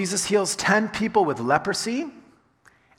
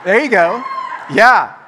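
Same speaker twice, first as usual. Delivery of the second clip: high, much louder whoop of joy; cheering; 4 semitones higher, 9 dB louder than usual. Shown as a demonstration. Pastor acts out cheering at cancelled debts. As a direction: cheer like your debts are gone. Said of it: "shout and cheer".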